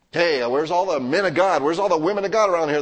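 mock complainer. Mocking complaining churchgoer.

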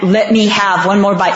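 half-laughing mock begging; retelling mom's plea while laughing. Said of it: "I said".

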